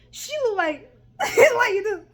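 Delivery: high-pitched, breaking up laughing; words lost in high laughter; real laughter. Real, not acted. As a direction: crack up while trying to finish the sentence. Cracks up imitating a look.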